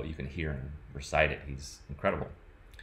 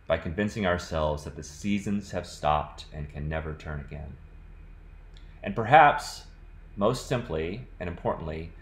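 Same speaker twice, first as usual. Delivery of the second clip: measured literary reading voice; poetry reading; 2 semitones higher than usual. Acted. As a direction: read it like a poet savouring each line. Reads poem passage aloud.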